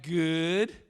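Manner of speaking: lightly voiced first-grade chorus; a hint of children answering as one; imitated class answer. First graders answering how they are, imitated group reply. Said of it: "They all went".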